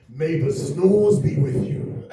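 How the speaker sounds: mock Vader. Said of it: "Breathing like Darth Vader".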